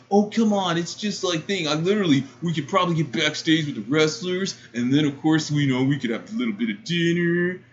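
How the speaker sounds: mock cringey persuasion; cringey suitor. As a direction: plead like an awkward guy pushing for a date. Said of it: "in the most cringiest voice".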